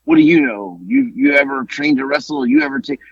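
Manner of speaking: high-pitched mock of a critic; mocking imitated challenge. Retelling an online critic's challenge, mocking imitation. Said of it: "one guy even said".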